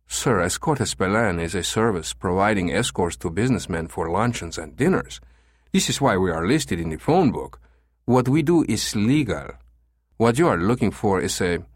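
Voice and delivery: put-on formal, lightly accented manager; guarded agency manager. Manager sets a suspect caller straight, formal and firm. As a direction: explain it firmly as the agency manager.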